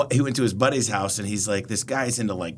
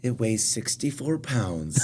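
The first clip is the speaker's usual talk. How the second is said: mock airline agent; 4 dB quieter, slower than usual. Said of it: "the smile".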